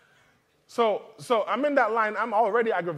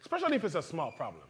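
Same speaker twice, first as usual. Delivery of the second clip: inner voice; 4 dB quieter, faster than usual. Retold or imitated. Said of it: "'cause you're thinking".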